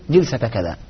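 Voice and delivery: جلسة said jilsa, with an i; first vowel of جلسة as short i; kasra on first letter. Shown as a demonstration. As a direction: pronounce جلسة with kasra on the jim. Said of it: "فتكسر أوله فتقول".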